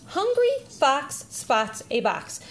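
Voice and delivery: slow, clear model reading; parent reading first. Shown as a demonstration. Parent models a sentence for child, slow read-aloud. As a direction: read it out slowly for a child to copy. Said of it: "So the parent would read".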